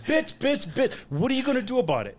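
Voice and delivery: very high laughing sneer; mocking tough guy laughing. Bouncer mimicking the gang while laughing at them. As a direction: squeak the taunt through laughter.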